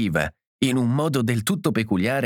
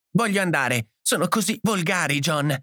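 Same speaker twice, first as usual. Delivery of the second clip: high-pitched, upset plea; distressed cry; 7 semitones higher than usual. A narrator's reading. Edith begging John to leave, distressed cry. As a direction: appeal to your husband, pitch raised. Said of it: "gridò Edith".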